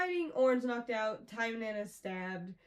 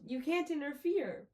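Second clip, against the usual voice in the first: mild mock yell, raised pitch; Tynan's retold yell; 5 semitones higher than usual. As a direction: call it out in protest, only half raised. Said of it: "and Tynan yells".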